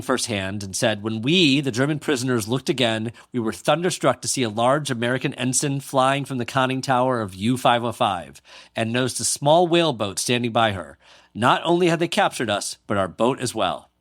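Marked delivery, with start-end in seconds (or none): 1.0-3.1 put-on light German accent; reading with a hint of a German accent. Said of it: "How was my German accent". 3.3-12.8 put-on light German accent; a German sailor's account, faintly German-accented. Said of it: "How was my German accent". 12.9-13.9 put-on light German accent; a slight touch of German accent. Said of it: "How was my German accent".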